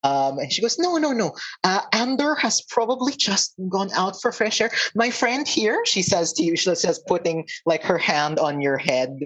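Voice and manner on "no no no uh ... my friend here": higher, hurriedly reassuring centaur; a touch of flustered reassurance, pitched up; lightly voiced centaur townswoman. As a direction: play down the worry in a higher character voice.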